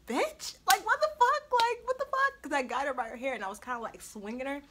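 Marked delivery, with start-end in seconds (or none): 0.1-2.4 high, loud laughing what the fuck; laughing disbelief. Real, not acted. Telling viewers the friend dropped, high laughing disbelief. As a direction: squeal it in amused disbelief. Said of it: "laughing disbelief at the fight".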